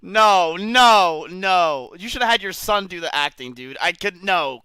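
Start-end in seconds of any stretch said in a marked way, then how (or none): 0.0-1.9 loud, exasperated groaning protest. Real, not acted. Streamer ranting at a scripted video, exasperated. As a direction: drag out the disbelief, loudly.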